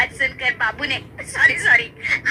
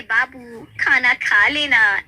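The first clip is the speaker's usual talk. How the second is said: mock taunt; 4 dB louder, slower than usual. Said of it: "ये कहकर चिढ़ाते रहते".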